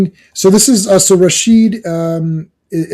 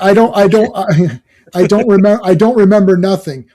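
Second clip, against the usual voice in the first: mock confused kid; 3 semitones higher, 5 dB louder than usual. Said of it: "you should use a double negative".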